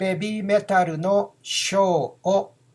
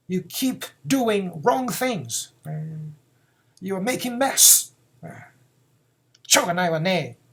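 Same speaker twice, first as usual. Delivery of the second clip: put-on wag a finger at the boy; scolding mother. Mother scolding her naughty son. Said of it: "a mother tells this to her son".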